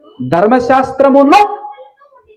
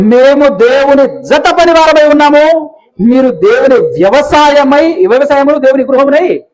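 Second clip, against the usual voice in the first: slow scripture reading; 4 semitones higher, 4 dB louder, slower than usual. Shown as a demonstration. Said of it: "అన్నాడా?".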